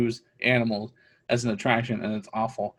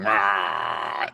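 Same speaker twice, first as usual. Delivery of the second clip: imitated bear roar; 6 semitones lower than usual. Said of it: "the bear going".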